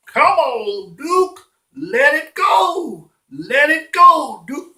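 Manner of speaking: high, drawn-out calls to a dog; dog walker cheering on his pet; coaxing dog owner. Acted. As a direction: urge the dog on in long, high pleas. Man urging his dog, voiced.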